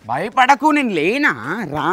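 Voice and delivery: high, shouted encouragement; loud reassurance. Real, not acted. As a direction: call the frightened friend onward. Calls frightened companion to come along.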